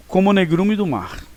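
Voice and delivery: "como o" said as one "como" before "negrume"; vogais fundidas. Shown as a demonstration. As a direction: let the O disappear into "como" in "como o negrume do mar". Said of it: "Ele se funde". ("como o" com os dois O fundidos num só som)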